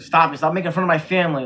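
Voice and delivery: quick retold angry protest; mildly acted hurt anger; mock upset. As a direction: imitate someone fed up with teasing. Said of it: "you can tell he gets really, really upset".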